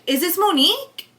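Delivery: lightly imitated caller checking a name; imitating caller's tone. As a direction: mimic the caller's questioning rise. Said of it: "I'm gonna use her exact tone".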